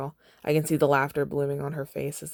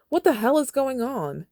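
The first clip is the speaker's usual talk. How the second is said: high, loud startled demand; alarmed yell; 10 semitones higher, 4 dB louder than usual. Acted. Haymitch pulling them apart, loud alarmed yell. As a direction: shout to break it up.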